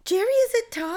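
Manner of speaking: high sing-song voice for a pet; talking to a dog. Acted. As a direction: coo it at the dog like baby talk. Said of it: "That voice you used is a dog voice".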